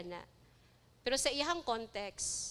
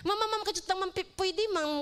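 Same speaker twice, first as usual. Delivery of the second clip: imitating eager interviewee; 5 semitones higher, faster than usual. Impatient interviewee begging interviewer.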